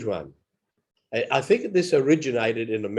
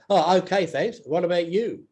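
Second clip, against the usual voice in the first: casual reply; 5 semitones higher than usual. Retold or imitated. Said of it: "people would just say".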